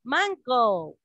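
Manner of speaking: "Mango" with a long, falling final o; teacher's demo of English "Mango"; English pronunciation. Shown as a demonstration. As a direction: model "Mango" as English man-goh. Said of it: "Estamos aprendiendo a pronunciar".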